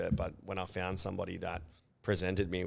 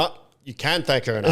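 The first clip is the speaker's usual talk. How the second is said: laughing; 5 semitones higher, 11 dB louder than usual. Real, not acted. Laughing banter at the story.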